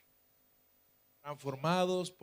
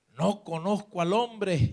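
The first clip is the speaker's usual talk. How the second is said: raised, drawn-out sworn denial; cursing denial; 4 semitones higher, 6 dB louder, slower than usual. Acted. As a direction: swear on "hombre" that you don't know him. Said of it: "comenzó a maldecir y a jurar".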